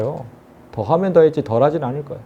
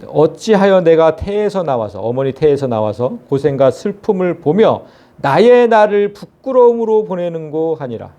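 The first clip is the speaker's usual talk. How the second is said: measured, solemn Bible reading; scripture reading. Acted. Preacher reads Job's lament to the congregation, solemn.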